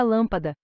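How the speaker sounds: "lâmpada" with the weight on "lâm"; "lâmpada", strong start and two weaker syllables; stress on first syllable. Shown as a demonstration. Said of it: "A sílaba lã é tônica".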